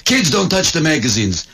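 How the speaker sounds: a lightly voiced cranky old man; old shopkeeper warning kids, lightly voiced; grumpy old shopkeeper. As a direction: scold the kids mildly. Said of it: "the old guy in the magazine shop".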